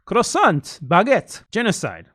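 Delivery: hammed-up French accent, high and loud, settling down; mock French accent. Mocking how French people speak, in a hammed-up French accent. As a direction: rattle off French words in an overdone French accent. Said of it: "That's their language".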